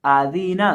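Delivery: आदीना with the vowels stretched long; wrong drawn-out reading. Shown as a demonstration. Teacher showing students the mistake: आदीना drawn out. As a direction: stretch आदीना the way it should not be read. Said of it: "इस तरह नहीं".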